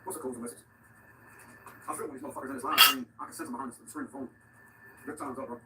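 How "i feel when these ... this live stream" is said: loud outburst. Real, not acted. Sudden outburst at viewers.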